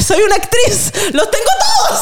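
mock diva. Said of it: "Y yo como".

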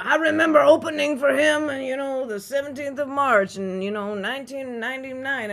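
mock tribute. S1 mocking comics' death posts, loud pompous tribute. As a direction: ham up a self-serving tribute post. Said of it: "like, you know".

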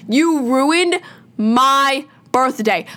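each word dragged out in anger, slow; slow, bitter blame aimed at the virus; slow angry accusation. Real, not acted. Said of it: "pissed off".

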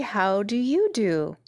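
slow, drawn-out courteous question; mildly prim girl returning a greeting; polite. Acted. Dorothy asks the Scarecrow in return, politely. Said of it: "replied Dorothy politely".

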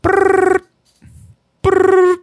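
high mock phone trill; imitating a phone ring in a high voice.

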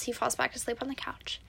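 breathy unvoiced whisper. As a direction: whisper it as if not to wake him. Sleepy story moment, whispered.

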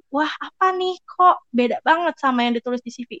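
high startled wah, then doubtful question; puzzled surprise. Acted. Interviewer finding the candidate unlike the CV, puzzled surprise. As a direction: play a mildly taken-aback questioner.

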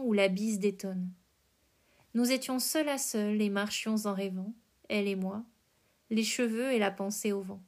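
measured verse recitation, pausing between lines; poem reading. A narrator's reading. Host reading Verlaine's Nevermore to listeners, measured poem recitation.

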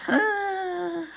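high soft startled gasp; mock scared gasp. Tense cinema moment, a high soft gasp. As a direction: gasp as the score builds. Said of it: "there's a score of me going".

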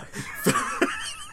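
squealing burst of laughter; high laugh. Real, not acted. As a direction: crack up high. Breaks up mid auction.

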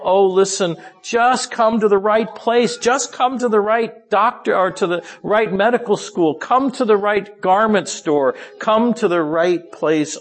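pleading shepherd's call, starting high and slowing; begging. Acted. Christ as shepherd calling his people to come, begging. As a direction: beg them to come, drawing out the last appeal. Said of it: "he's begging".

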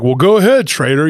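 mock a friend's annoyed jab; aggravated. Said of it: "kinda aggravated".

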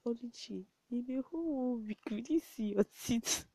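daddy teasing his daughter for not smiling all week; quoting daddy. Retold or imitated. Dad's teasing remark quoted.

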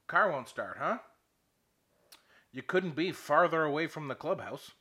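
mildly irritated scolding, leaning on FARTHER; pissed marshal. Retold or imitated. Old marshal scolding the stranded golfer, pissed. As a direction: imitate a grumpy official having a dig. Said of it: "and he's pissed".

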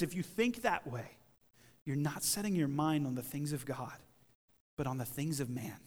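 low, soft and measured; quiet, grave reproof. Acted. Preacher restating Jesus' words to the congregation, quiet reproof. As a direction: let the correction sink in gently.

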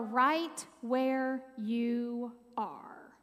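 slow breathy whisper; whispered phrase. Shown as a demonstration. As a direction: whisper the key phrase slowly. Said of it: "four very easy words".

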